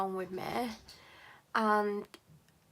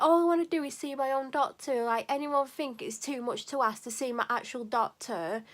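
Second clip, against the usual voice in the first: retold tearful plea. Upset patient pleads with receptionist, tearful and raised. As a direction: beg to see your own doctor while starting to cry. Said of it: "I started crying".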